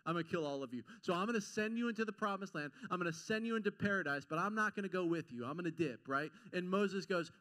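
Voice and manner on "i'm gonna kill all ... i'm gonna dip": lower, fast, fed-up voice of God; a lightly voiced God, frustrated and blunt; exasperated God. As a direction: play God at the end of his rope, hurrying through it. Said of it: "God is so frustrated with the Israelites".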